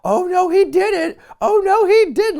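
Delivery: high, loud mock yell, repeated; hammed-up sidekick hollering. Sidekick yells at the crowd before anything happens, imitated loud shout. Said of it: "just yells".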